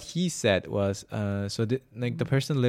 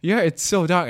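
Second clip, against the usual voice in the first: emphatic agreement; 9 semitones higher, 10 dB louder than usual. Real, not acted.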